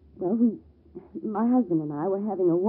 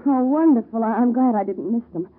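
delighted; 3 semitones higher, 5 dB louder than usual. Acted. Told parents are on the phone.

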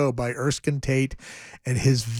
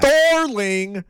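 lightly voiced sultry French darling, higher; mock French; 7 semitones higher than usual. Co-host echoing the French bit, mock sultry. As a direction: coo it like a cabaret singer.

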